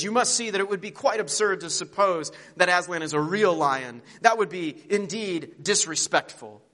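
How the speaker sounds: pompous and sure of himself, lightly voiced; lofty Bree. Horse Bree lecturing his friends, pompous and loud. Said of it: "Bree says".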